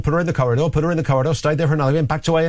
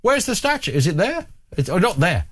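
much higher, eager mock blurting; mock-excited colleague in my ear; excited producer; 12 semitones higher than usual. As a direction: squeal it like an overexcited colleague. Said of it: "He's now in my ear going".

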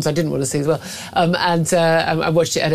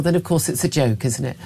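ordinary talk, nothing marked

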